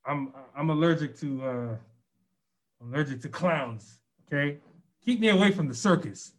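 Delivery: talking through a face mask; muffled behind a mask. Real, not acted. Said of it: "my voice muffled, that's 'cause I have a mask on".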